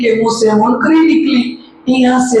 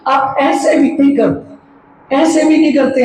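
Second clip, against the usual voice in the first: slow and higher, a half-joking scold; slow and raised; 4 semitones higher than usual. Shown as a demonstration. Preacher chides the silent congregation, slow and higher. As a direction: drag it out higher, chiding the audience. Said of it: "मैं थोड़ा धीरे बोल रही हूँ".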